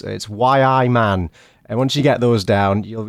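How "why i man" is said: "Why I man" in a slow, light Geordie accent; mock Geordie phrase. Shown as a demonstration. Teaching the Geordie phrase, slow mock Geordie. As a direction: sound out the Geordie cheat-code phrase. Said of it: "three magic words".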